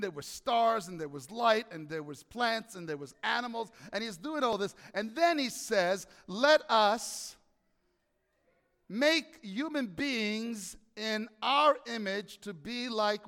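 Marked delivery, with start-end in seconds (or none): 6.3-13.3 slow solemn God quote. Acted.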